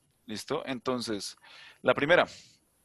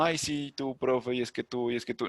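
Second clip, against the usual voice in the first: overfamiliar mock tone. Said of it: "y no se diga como".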